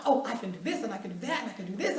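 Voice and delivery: fast eager rambling. Retold or imitated. Retold rambling self-pitch.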